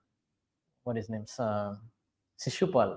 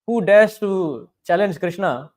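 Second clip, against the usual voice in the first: louder, slow, defiant challenge; 2 semitones higher, 5 dB louder, slower than usual. Retold or imitated. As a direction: hurl the challenge at the whole assembly. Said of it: "stood up and said".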